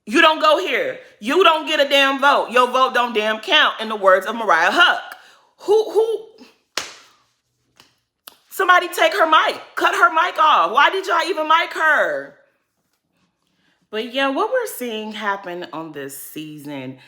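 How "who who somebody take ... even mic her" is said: laughing mockery. Real, not acted. Mocking Jacqueline, laughing.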